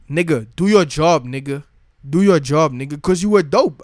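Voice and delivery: telling a player off, fed-up yell. Real, not acted. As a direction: bark the order at him. Ranting at a player.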